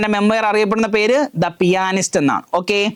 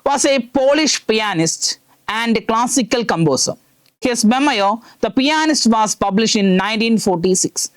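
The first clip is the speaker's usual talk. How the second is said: very slow, word-by-word classroom reading; reading aloud; 2 semitones higher, much slower than usual. Shown as a demonstration. Teacher reading the textbook passage aloud to students, very slowly. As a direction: read it out slowly so students can follow. Reads English text to class.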